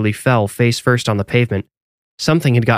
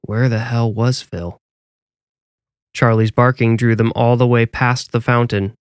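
plain reading voice

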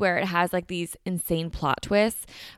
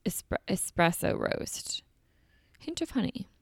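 whispering; 6 dB quieter than usual. Real, not acted. Reading menu items aloud softly.

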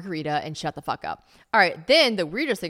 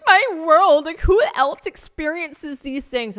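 high, loud dramatic whine of her younger self; mocking younger self; 11 semitones higher, 8 dB louder, slower than usual. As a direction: overdramatic diva voice, lamenting. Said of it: "at the time I was like".

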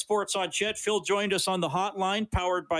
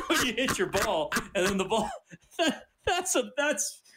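laughing while talking; 4 semitones higher than usual. Real, not acted. Host laughs telling the golf story.

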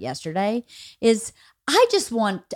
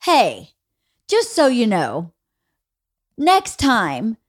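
measured; slower than usual. Retold or imitated. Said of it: "with my real feelings in a measured way".

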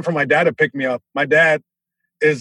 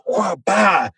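punchy vocal whoosh and smack; higher-pitched mock impact noise; imitated kick impact; 4 semitones higher than usual. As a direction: act out a kick landing with your voice. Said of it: "just roundhouse kicks me".

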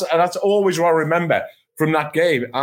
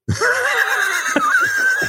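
high, burst of laughter. Real, not acted. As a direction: crack up at the absurdity. Laughing at absurd advice.

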